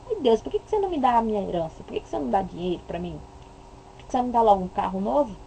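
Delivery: fast nagging complaint to God; mock whiny demands. Mocking a believer begging God for a car, fast and whiny. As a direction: rattle off the greedy demands quickly.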